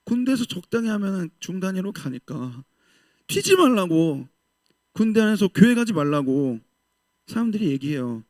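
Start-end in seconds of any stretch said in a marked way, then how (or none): none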